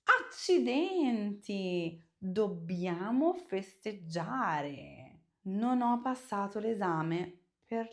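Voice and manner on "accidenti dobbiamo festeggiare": positive surprise. Shown as a demonstration. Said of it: "Use the intonation to make it positive".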